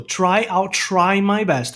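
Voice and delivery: very slow, clear I'll try my best; slow example. Shown as a demonstration. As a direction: stretch it out for the class. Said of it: "por exemplo".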